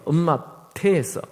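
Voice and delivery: normal talking voice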